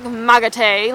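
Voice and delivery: put-on "mug of tea" run together as "mugga tay" in a light Irish accent. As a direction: say "mug of tea" the way a rural Irish farmer would. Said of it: "they say, like".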